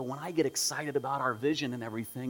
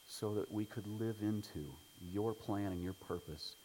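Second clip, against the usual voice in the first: soft, low prayer voice; hushed pastoral prayer; 6 semitones lower, 12 dB quieter than usual. Acted. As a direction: pray quietly and earnestly to God. Opening prayer before sermon.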